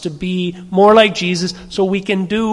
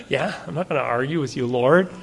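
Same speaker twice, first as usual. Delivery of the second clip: quick, quieter words through a laugh; laughing confession; 4 semitones lower, 6 dB quieter than usual. Retold or imitated. Admitting fault to the Lord, laughing sheepishly. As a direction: laugh it off while owning up.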